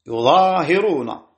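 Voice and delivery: "يظاهرون" as yuZaahiruna, slowly, with hi after long aa; kasra on ha. Shown as a demonstration. Teacher confirming the vowels, "يظاهرون" slowly as yuZaahiruna. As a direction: lengthen the alif, then give ha an i in "يظاهرون". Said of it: "وزيادة ألف بعدها وكسر الهاء".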